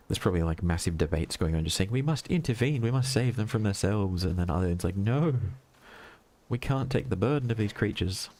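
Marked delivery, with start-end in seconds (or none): 1.9-4.2 lightly voiced earnest alien pleading; a mock-urgent plea, pitched up; hint of a crusading alien debater; debating alien. Acting out aliens' imagined debate. 5.0-8.3 lightly voiced alien refusal, pitched up; mock-solemn objection from the other side; hint of a dissenting alien; objecting alien. Other alien answers in imagined debate.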